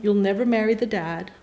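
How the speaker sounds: soft, measured fortune-telling, retold; hushed prophecy. Psychic telling her future to her, hushed. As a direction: deliver the revelation softly, pausing between sentences.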